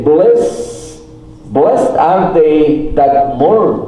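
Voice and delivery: "blessed are they that mourn" read slowly, word by word in English; English quote read slowly. Shown as a demonstration. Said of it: "M O U R N".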